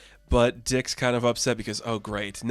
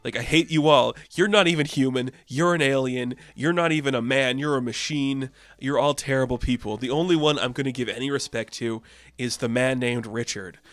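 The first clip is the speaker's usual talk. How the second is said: mock angry Peacemaker. Peacemaker telling off the Titans kids, mock angry rant. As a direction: rant like an offended buffoon. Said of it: "He's like".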